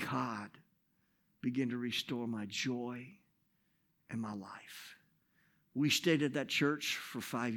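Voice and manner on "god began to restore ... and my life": soft, low, breathy hush; near whisper. Real, not acted. Pastor telling the congregation of restored joy, hushed. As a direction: let it fall to a whisper. Sermon climax.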